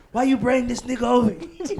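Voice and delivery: high, laughing mock of the friend; laughing mock quote. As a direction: toss it off through a laugh.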